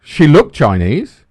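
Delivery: slow phrase with "looked" stressed. Real, not acted. Correcting himself about the waitress, stress on "looked". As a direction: lean slowly on "looked".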